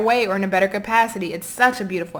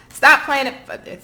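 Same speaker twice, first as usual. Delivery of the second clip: slow, higher and louder scolding; reprimanding; 5 semitones higher, 5 dB louder, much slower than usual. Real, not acted. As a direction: cut in to scold, stretching the words out. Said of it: "now I'm getting ready to reprimand you".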